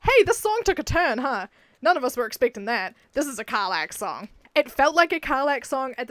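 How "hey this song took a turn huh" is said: excited. Real, not acted. Joking about a plot twist.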